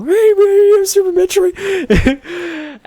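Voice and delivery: high, slow little-kid voice imitating himself; squeaky kid asking the store clerk. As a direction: play his ten-year-old self asking shyly.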